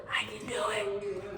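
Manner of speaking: breathy self-talk whisper. Shown as a demonstration. Showing viewers how to whisper motivation, whispered. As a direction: whisper it to yourself like a secret pep talk. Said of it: "Just whisper".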